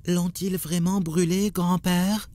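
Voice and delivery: high anxious plea to grandpa; alarmed question. Acted. Grandson asking grandfather if Abraham burned, alarmed and high. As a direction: ask it high, scared of the answer.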